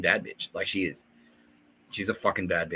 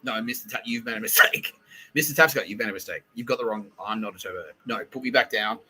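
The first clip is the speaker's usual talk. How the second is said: mildly raised, indignant retelling; a touch of outraged refusal; mock angry protest; 2 semitones higher, 4 dB louder than usual. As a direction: imitate her insisting there has been a mistake. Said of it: "she was very angry".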